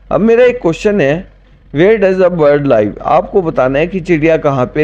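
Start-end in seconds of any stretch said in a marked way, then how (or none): 1.7-3.0 slow dictation. Shown as a demonstration. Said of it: "teacher reads English slowly".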